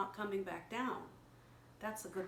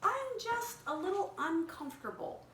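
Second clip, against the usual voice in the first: caterpillar voice; 10 semitones higher than usual. Acted. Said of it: "she told Marcel".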